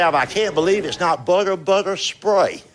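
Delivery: mock commercial read, stretching spray; hammed-up ad tagline; ad slogan. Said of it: "They'll say".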